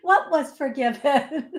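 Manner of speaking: laughing requote. Retold or imitated. Requoting herself to viewers, laughing. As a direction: say it again while giggling.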